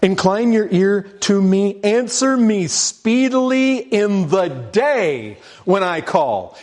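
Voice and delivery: high, slow desperate plea; pleading psalm. Acted. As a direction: cry out to God to hurry.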